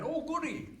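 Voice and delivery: high giggly character voice with laughter; giggling puppet voice. Acted. The puppet giggles at Pickles, high and laughing. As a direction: cackle through it like a silly puppet.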